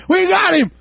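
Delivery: high, triumphant shout of the demons; gloating shout. Retold or imitated. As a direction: crow it out as if you've won. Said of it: "And screaming at him".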